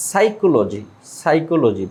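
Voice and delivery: সাইকোলজি said "saikoloji" with no p; teacher models সাইকোলজি, p silent. Shown as a demonstration. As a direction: start সাইকোলজি on s, no p. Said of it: "পি এর উচ্চারণ হবে না".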